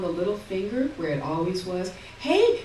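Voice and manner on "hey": put-on high, loud call from an old mother; a frail old mother perking up and calling out; old Ma's call. A narrator's reading. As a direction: call out to her daughters like an old woman. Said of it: "she says".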